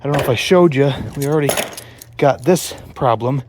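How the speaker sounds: panting between words; winded, catching breath while talking. Real, not acted. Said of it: "Sorry, I'm huffing and puffing".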